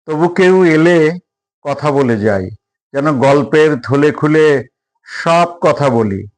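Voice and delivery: measured poem reading with long pauses between lines; deliberate, evenly paced verse recital; poetry recitation. Acted. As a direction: recite it line by line, letting each phrase stand.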